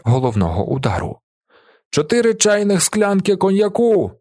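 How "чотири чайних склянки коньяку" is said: shouting order. A narrator's reading. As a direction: bellow the order across the tavern. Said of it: "кричить він шинкареві".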